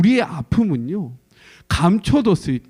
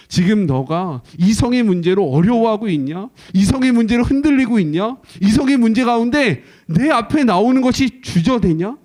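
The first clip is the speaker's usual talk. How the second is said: higher, louder urgent questions; impassioned louder questioning; urgent pleading; 5 semitones higher, 6 dB louder than usual. Acted. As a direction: press her with earnest concern. God questioning passionately.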